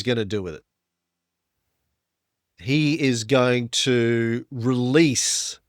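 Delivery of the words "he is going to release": dramatic gravitas. Acted. Dramatic build.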